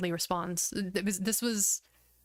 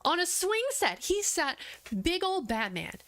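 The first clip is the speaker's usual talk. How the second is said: amused disbelief; 5 semitones higher than usual. Real, not acted. Picturing Batman on a swing set, high and amused. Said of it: "amused disbelief".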